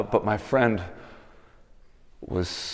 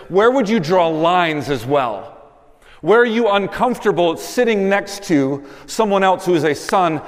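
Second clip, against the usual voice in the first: louder, higher impassioned sermon voice; preaching at full force; 10 semitones higher, 7 dB louder than usual. Acted. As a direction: drive the call home to the congregation. Preacher's applied exhortation.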